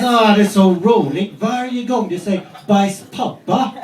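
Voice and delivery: put-on delight like a small kid; imitating little son. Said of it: "And he goes".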